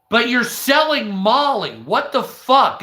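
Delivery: high-pitched retold objection; incredulous protest. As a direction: protest in baffled disbelief. Acts out argument with shop sellers.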